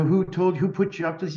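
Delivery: a touch of retold indignation; retold anger. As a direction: imitate someone getting angry, held back. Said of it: "he was getting angry and like".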